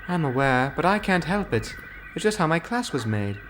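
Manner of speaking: a lightly voiced engine owning her fault; young engine voice. A narrator's reading. Rebecca admitting her wheel slip to the boss, apologetic.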